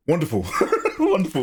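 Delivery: a hammed-up high "Wonderful"; mock wonderful. Mock delight at gun reload.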